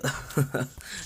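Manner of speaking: short breathy laugh; soft scornful laugh, mostly breath; acted mocking laugh. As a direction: laugh quietly at someone pitiful. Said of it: "she starts laughing".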